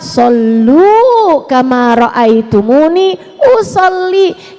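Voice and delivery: slow, drawn-out Arabic quote; quoting the Prophet. Retold or imitated. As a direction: recite the hadith reverently. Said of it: "Kata Nabi Muhammad". (kutipan hadis yang pelan dan khidmat)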